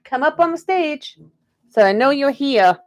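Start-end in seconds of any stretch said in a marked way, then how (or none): 0.0-1.2 lightly drawn Southern Belle greeting; louder Southern Belle welcome to the stage. Pretend. Tarot reader welcoming viewer in Southern Belle accent. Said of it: "I'm doing the Southern Belle thing for everybody".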